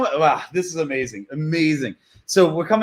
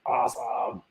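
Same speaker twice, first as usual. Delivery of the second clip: whisper; 10 dB quieter, slower than usual. Real, not acted. Whispered during the screenshot.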